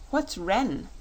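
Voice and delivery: put-on a boy puzzling over a strange word, lightly childlike; curious child. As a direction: ask it as a puzzled little boy. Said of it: "asked Button-Bright".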